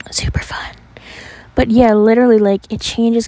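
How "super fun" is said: sarcastic. Real, not acted. Sarcastic remark about scary roads.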